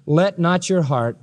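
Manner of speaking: drawn-out setup left hanging for the crowd; call and response. Shown as a demonstration. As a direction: pause and wait for the congregation to finish.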